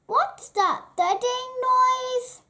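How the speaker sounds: put-on a nervous kid hearing a noise; jumpy young goat; startled little goat. Beanie alarmed.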